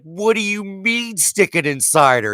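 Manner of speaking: high-pitched baffled demand; hammed-up bewildered question, voice way up; exasperated confusion. Clueless Mitch questioning Bill forever, exasperated.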